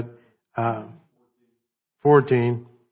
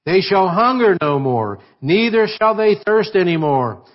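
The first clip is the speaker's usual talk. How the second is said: higher, lifted pulpit reading voice; scripture reading; 3 semitones higher than usual. Acted. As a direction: read Revelation out to the church, lifted. Reads Revelation aloud in church.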